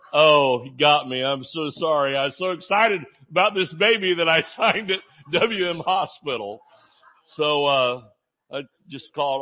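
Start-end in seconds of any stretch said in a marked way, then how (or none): 0.1-6.6 embarrassed. Retold or imitated. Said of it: "turned four shades of red".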